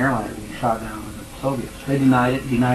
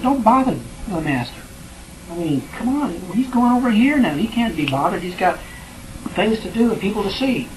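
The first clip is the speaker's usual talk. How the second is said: lightly voiced irritated crowd, pitched higher; annoyed crowd; 6 semitones higher than usual. Preacher playing the crowd shushing the blind men, mildly irritated. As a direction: brush them off like an impatient bystander.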